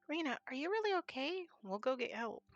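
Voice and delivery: put-on alarmed little boy; worried child. Child alarmed at Rena collapsing.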